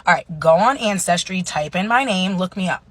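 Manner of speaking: grandpa imitation. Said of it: "he's like".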